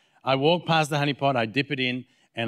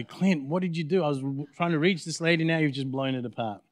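imagined friend's reproach; 3 semitones higher than usual. Acted. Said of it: "your friend's gonna go".

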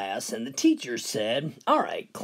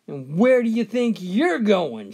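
raised, louder demand; stern teacher; 6 semitones higher, 6 dB louder than usual. Acted. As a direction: call him back sharply. Teacher catches Johnny leaving.

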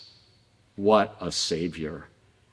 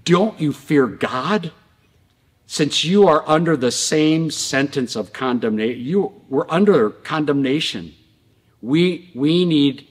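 higher, emphatic retold rebuke; rebuking; 5 semitones higher, 3 dB louder than usual. Robber rebukes the other robber beside him, indignant. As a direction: voice one condemned man scolding another. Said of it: "rebuked him and said".

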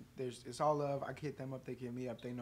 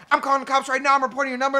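angry threat; 7 semitones higher, 8 dB louder, faster than usual. Retold or imitated. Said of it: "And she's call".

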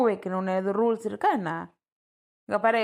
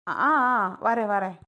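crying. Acted. Bride told to make coffee, answering while crying. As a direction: sob out the reply. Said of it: "அதுக்கு ஏன் அழுகுற?".

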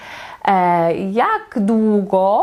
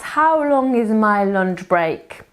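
slow model sentence; slower than usual. Shown as a demonstration. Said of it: "Jeszcze raz".

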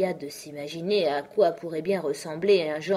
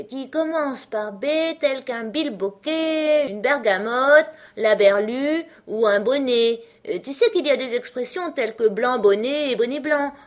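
startled dormouse; 7 semitones higher, 6 dB louder than usual. A narrator's reading. Dormouse pinched awake and resuming his list, high-pitched. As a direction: reel it off high, stretching the words.

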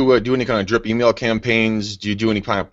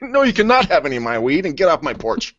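shouting at trespasser; 5 semitones higher than usual. Retold or imitated. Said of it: "New York's like".

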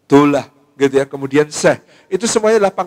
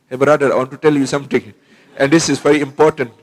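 South Asian English. Retold or imitated. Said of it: "dengan bahasa Inggris yang khas".

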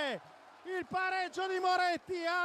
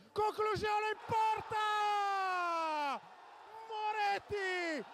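excited goal call; 3 semitones higher than usual. Real, not acted. Goal call by radio commentator.

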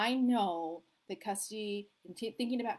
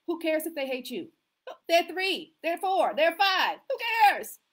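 defiant emphasis; 7 semitones higher, 7 dB louder than usual. Acted. Dismissing kids' anger over limits.

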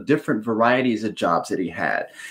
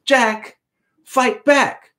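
higher, scolding mother's voice; mother's warning; 11 semitones higher, much slower than usual. Acted. Mother scolding her son to fight back, higher. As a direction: wag a finger and tell him to fight back. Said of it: "wagged her finger at him one day and said".

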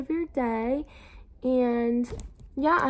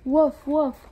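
louder, higher storybook woofs; dog's bark; 4 semitones higher, 8 dB louder than usual. A narrator's reading. Reading the dog to kindergartners, loud woofs. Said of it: "barked the dog".

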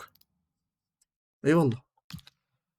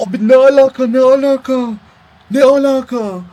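much higher, loud indignant cry; outraged disbelief; 9 semitones higher, 9 dB louder than usual. Real, not acted. Gamer protesting a goal decision in outrage. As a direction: protest like you've been robbed.

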